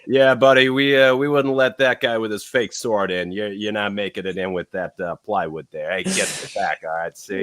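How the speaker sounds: gruff, loud security guard; con security guard. Retold or imitated. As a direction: bark it like a bouncer. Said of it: "It's what all con security sounds like".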